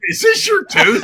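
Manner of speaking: high, loud mock-shouted question; mock airport screener. Airport screener holding up a tooth from a suitcase, mock shout. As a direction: play a startled baggage checker, big and high.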